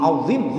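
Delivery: "Azim" with a thick dho, lips forward; huruf dho. Shown as a demonstration. ("Azim" dengan dho tebal, bibir maju)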